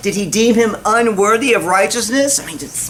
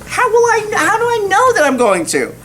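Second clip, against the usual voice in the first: repeated question; 12 semitones higher than usual. Retold or imitated. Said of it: "is what he says, word for word".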